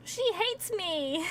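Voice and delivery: high, drawn-out lament; playfully sad. Real, not acted. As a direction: stretch out a half-laughing wail. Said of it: "So sad about it".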